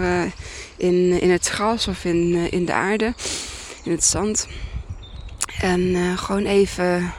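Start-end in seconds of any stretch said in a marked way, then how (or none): 3.8-7.1 outdoor wind noise on mic. Real, not acted. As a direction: wind blowing into the microphone. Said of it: "Sorry voor de wind".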